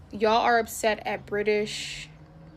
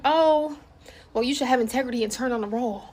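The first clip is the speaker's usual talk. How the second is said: mock commenter; 2 semitones higher, 4 dB louder than usual. Creator parroting critical online comments, mocking. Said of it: "I keep seeing comments like".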